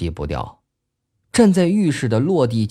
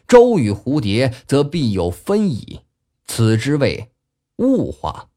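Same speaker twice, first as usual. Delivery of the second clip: classical recitation. Acted. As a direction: recite the old verse with cadence. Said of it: "洪亮地念出了".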